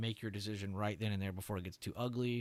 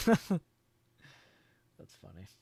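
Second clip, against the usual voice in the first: laughing; 2 semitones lower, 6 dB louder than usual. Real, not acted. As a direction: laugh through the word. Reacting to chat joke.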